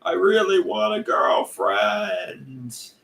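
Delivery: high, slow, crying shout; screaming. Retold or imitated. Streamer wailing to chat for a girlfriend, slow crying shout. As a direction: wail it out like a desperate cry. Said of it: "I'm screaming".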